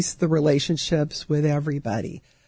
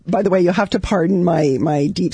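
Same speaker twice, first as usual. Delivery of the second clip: allergy voice; 3 semitones higher than usual. Real, not acted. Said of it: "my deep, sexy voice this morning as the seasonal allergies".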